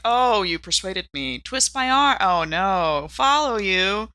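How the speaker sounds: sarcastic, hammed-up "you twisted my arm" voice, slowing at the end; mock reluctance. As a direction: play Carl pretending to be talked into it. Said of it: "Carl's like".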